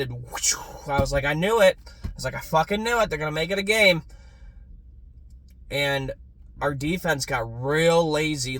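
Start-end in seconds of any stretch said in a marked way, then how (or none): 1.2-1.8 high, loud told-you-so shout; triumphant yell. Retold or imitated. Calling the flag he predicted. 2.3-4.0 high, loud bitter I-told-you-so; exasperated yell. Retold or imitated. Calling the flag he predicted.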